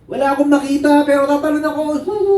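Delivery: high shout ending in a wail; acted panic before a leap; frightened child. Child jumping blind to father, frightened high wail.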